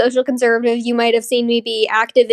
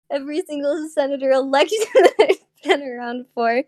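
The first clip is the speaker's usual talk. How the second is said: laughing; 3 semitones higher than usual. Real, not acted. Laughing fix of slip.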